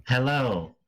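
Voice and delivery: lightly voiced woman; Titania's voice. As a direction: mimic her hello barely changed. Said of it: "in her voice".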